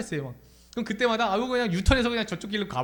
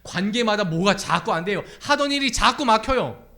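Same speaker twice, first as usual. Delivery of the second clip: raised, pressing sermon voice; louder, insistent preacher; impassioned preaching; 4 semitones higher, 6 dB louder than usual. Real, not acted. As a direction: preach it with rising urgency.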